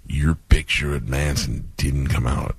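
slow, low, lightly voiced wrestler; Randy Savage. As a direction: deliver bad news in drawn-out wrestler talk. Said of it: "I love talking as Randy".

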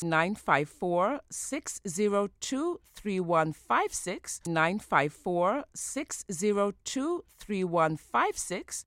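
slowly reading out the number; slow, careful digits with pauses; slow dictation. Real, not acted. Dictates office phone number twice.

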